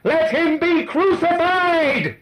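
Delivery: slow, very high, drawn-out shout; demonic mob roar. A narrator's reading. The demon-filled crowd gives its answer, roaring. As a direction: roar it long and loud. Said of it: "roared like demons".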